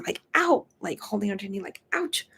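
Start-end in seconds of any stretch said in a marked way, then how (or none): 0.3-0.7 a high yelp of pain, imitated; lightly imitated "Ow!"; mock ouch. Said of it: "you going". 1.9-2.3 a high yelp of pain, imitated; lightly imitated "Ow!"; mock ouch. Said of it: "you going".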